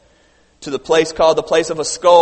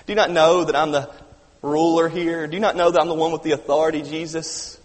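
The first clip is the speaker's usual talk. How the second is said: annoyed ruler. Acted. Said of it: "talking to Jesus like he's a nuisance".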